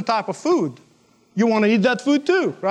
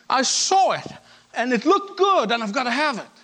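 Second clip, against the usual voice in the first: lightly voiced shopper, pitched higher; shopaholic's insistence; 4 semitones higher than usual. Preacher mimics a shopaholic justifying the purchase, insistent. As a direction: insist on it like a compulsive buyer.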